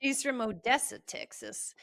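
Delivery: imitating a friend's West Texas accent; terrible Texas accent. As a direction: put on a bad Texan accent. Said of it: "This is a terrible accent that I'm using".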